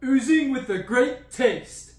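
slow hammy ad read; mock commercial voice. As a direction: sell it like a TV ad. Mock ad slogan.

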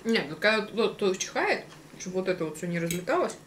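speaking between bites; chewing while talking. Real, not acted. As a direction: mouth full of salad. Seen 3: Both diners chew fresh bites throughout; unclear which one speaks.

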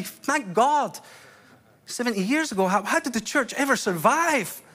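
forceful, emphatic sermon delivery; impassioned preaching. Real, not acted. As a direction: preach it in driving, rhythmic phrases.

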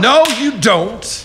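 loud, slow and high; forceful refusal. Acted. Captain to Molly, forcefully refusing to let go. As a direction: bark it back, refusing.

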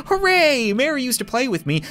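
high, gleeful doll cheer; talking doll. Acted. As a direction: cheer like an excited haunted doll. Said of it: "doll speaking".

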